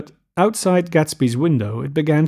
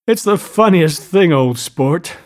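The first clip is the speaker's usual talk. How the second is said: high, giddy amusement, voice lifted; hilarious; 4 semitones higher, 3 dB louder than usual. A narrator's reading. Gatsby to Daisy and guest as he begins to laugh, hilarious. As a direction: read it as if tickled beyond words. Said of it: "he said hilariously".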